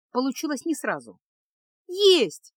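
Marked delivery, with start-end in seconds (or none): 1.9-2.5 high, loud cry of success; triumphant exclamation. A narrator's reading. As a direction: burst out as if it finally worked. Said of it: "наконец воскликнула Феска".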